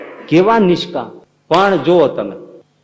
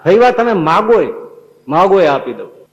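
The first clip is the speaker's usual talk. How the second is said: raised, higher voice pressing her to ask; the Lord calling out to Faiba, insistent and raised; insistent urging; 4 semitones higher, 5 dB louder than usual. Acted. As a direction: urge her loudly to ask anything.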